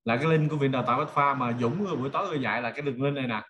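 usual speaking voice

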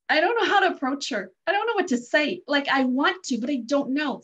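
flustered inner voice. Retold or imitated. Woman thinking how to approach a limping stranger, flustered. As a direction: act out not knowing what to do. Retelling her own anxious hesitation.

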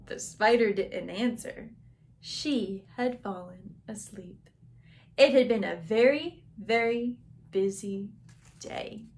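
gentle, winding-down storybook reading; slow down and space out the final words; bedtime story narration. Acted. Teacher reading the sleepy ending to children, gentle and slowing.

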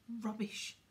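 snarl. Acted. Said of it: "snarled Filch".

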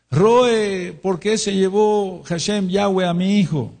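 high pleading cry of a bereaved father; grieving father pleading. Retold or imitated.

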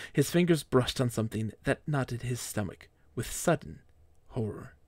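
measured, storybook narration; mock-epic storyteller voice; dramatic story reading. A narrator's reading. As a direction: read it like a solemn tragic tale. Reads his fan fiction aloud.

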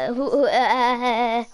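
stuttering, slow and halting. Real, not acted. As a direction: stumble over the first word. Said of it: "I'm stuttering now".

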